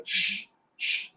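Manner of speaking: X, X said as a voiceless sh hiss; sh sound. Shown as a demonstration. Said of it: "sempre X como xícara".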